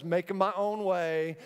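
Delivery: ordinary delivery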